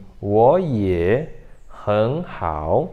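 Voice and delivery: 我也很好 slowly in two pairs, 我 and 很 rising; tone change demo. Shown as a demonstration. Teacher models the tone grouping for a learner, 我也很好 in two slow pairs. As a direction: draw out 我也, pause, then 很好. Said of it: "aqui vai ficar assim".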